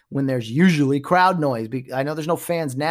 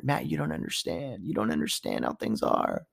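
low, softer mock condescension; mock snooty player; 5 semitones lower, 8 dB quieter than usual. Tennis player lecturing Matt, low mock condescension. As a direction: talk down to Matt like a fussy athlete.

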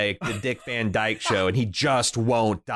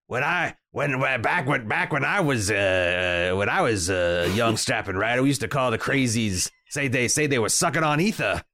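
put-on old writer voice. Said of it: "the eighty-five-year-old writer".

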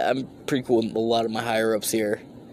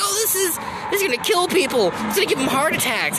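mocking. Mocking conspiracy group.

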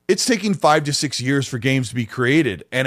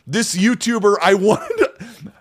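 higher-pitched, laughing through the words; exasperated laughing; 5 semitones higher than usual. Real, not acted. Podcaster griping about a maddening YouTuber, exasperated laughing. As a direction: laugh in exasperation as you speak.

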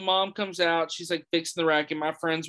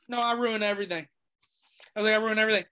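dejected; 2 semitones higher, much faster than usual. Retold or imitated. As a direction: mumble it like a guilty kid. Deflated reply to friend.

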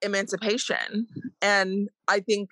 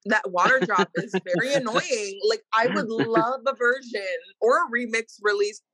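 echoey room sound; echoing bathroom. Real, not acted. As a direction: talk with bathroom echo. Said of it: "you sound like you're in the bathroom".

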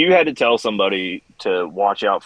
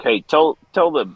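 urgent request; 4 semitones higher than usual. Retold or imitated. Calling CQ for shoes.

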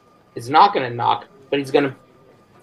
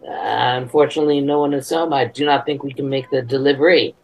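a mildly raised announcing voice; proclaimed; 2 semitones higher, faster than usual. Pretend. Inspector to any passers-by after faking a knock, mildly proclaimed. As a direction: announce it just loud enough for passers-by. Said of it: "super loud, but maybe loud enough".

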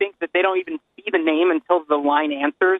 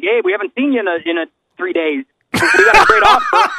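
mock casino promo; 4 semitones higher, 5 dB louder than usual. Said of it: "I thought you meant, like".

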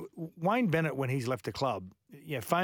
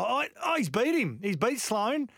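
excited play-by-play; 9 semitones higher than usual. Real, not acted. Commentator calling Damien Cook beating Sloane, excited. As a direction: voice leaping high with excitement.

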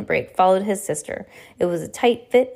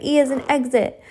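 raised, higher explaining shout; cried; 6 semitones higher, 3 dB louder than usual. Acted. Klaus shouting to be heard over the cabinets, raised. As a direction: spell it out over the din. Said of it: "Klaus cried".

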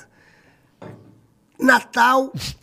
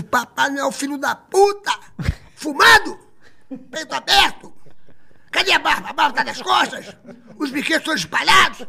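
high, indignant tirade, hammered item by item; outraged scolding; 5 semitones higher than usual. Retold or imitated. Marlene catches Santa smoking with toys scattered, acted outraged scolding. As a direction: act out an incredulous telling-off, voice pitched up.

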